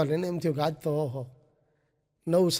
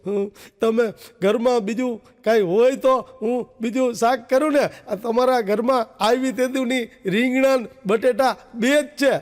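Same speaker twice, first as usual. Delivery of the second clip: mock crying wife; 4 semitones higher than usual. New wife answering her husband's scolding, mock tearful. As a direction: whine through pretend tears. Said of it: "બાઈ પરબારી રોવા માંડી".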